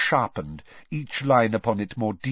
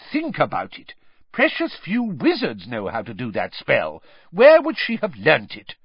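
loudly; 3 semitones higher, 5 dB louder than usual. Acted. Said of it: "said Mister Weasley loudly".

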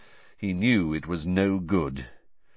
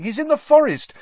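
high, loud frantic shout; panicked pupil shouting the place; 8 dB louder than usual. Acted. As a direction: yell where he is. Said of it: "Harry shouted".

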